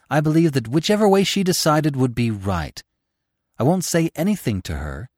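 a working mother's anxious, earnest confession; earnest mother pleading. Acted. Mother confides in the author, pleading and earnest. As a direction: pour out her worry about the children.

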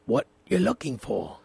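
Sean Connery impression. Asked by the host to do Bond, a low Sean Connery Scottish voice. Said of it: "Do your, do your Sean Connery".

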